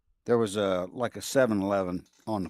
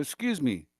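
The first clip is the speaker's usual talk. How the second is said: polite question; 13 semitones higher than usual. Retold or imitated. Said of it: "I said".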